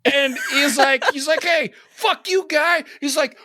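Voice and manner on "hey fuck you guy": high-pitched, drawn-out mock outrage; retold angry comeback. Man snapping back at the storyteller, angry retort. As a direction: play an indignant man hitting back.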